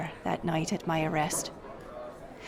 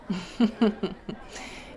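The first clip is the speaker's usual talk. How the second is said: amused laugh; 5 dB quieter than usual. Real, not acted. Teller amused by listener.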